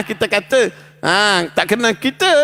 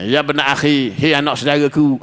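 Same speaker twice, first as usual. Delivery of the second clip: gentle call; 5 semitones lower than usual. Shown as a demonstration. Preacher shows the polite way to address someone, gently. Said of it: "Ha, lembut lah".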